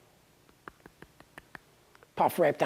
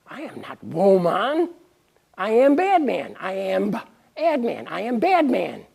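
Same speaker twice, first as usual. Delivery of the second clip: caveman; 4 semitones higher, 5 dB louder than usual. Acted. Adman boasts, Tarzan-like.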